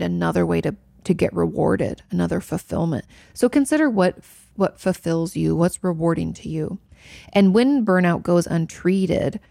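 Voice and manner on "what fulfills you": ordinary talk, nothing marked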